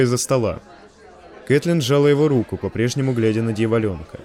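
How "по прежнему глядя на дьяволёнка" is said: plain reading voice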